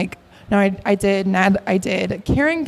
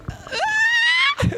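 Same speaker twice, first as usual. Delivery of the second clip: excited squeal. Real, not acted. Freaking out about celebrity attention.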